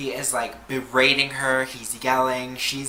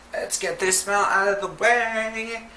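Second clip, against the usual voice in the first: mock urgency; 7 semitones higher than usual. Panicked covering of blunt smell.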